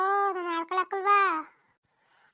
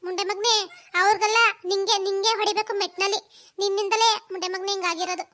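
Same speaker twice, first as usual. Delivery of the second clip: loud furious mother cursing son; angry scolding; 5 dB louder than usual. Acted. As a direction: yell the curse at him. (ಸಿಟ್ಟಿನ ಬೈಗುಳ)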